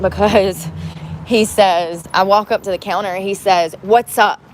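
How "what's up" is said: curt, louder mock of a condescending greeting. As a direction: imitate a manager's dismissive "What's up?". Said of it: "with a condescending, like, attitude".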